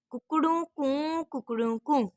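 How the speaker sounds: rooster crow. A narrator's reading. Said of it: "मुर्गा चिल्लाया".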